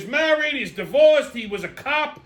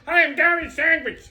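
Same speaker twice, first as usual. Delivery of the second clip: higher-pitched mock friendly greeting; imitated stranger introduction; 6 semitones higher than usual. Stranger introducing himself to a man at dinner, lightly mimicked. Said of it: "He goes".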